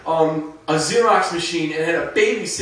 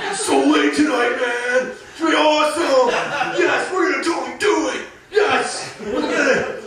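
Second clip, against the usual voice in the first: higher, eager hype; pumped-up guy; 5 semitones higher than usual. Retold or imitated. Guy hyping up his night, mock eager. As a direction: psych yourself up. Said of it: "the guy's gonna be like".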